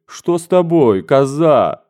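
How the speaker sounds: amazed mother asking what's wrong; astonished. Acted. The general's wife, surprised by her daughter's kisses, asks again. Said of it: "твердила изумлённая генеральша".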